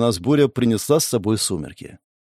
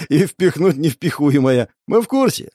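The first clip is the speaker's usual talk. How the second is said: short laugh, then amused words; chuckling; 3 semitones higher than usual. A narrator's reading. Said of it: "хохотнул протянувший к костру руки пиромант".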